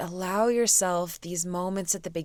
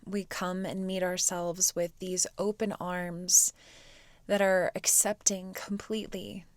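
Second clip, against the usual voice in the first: soft, unhurried meditation voice; guided meditation; 5 dB quieter than usual. Real, not acted. Teacher guides students to quiet the mind, soft meditation voice. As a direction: ease them into stillness with long pauses.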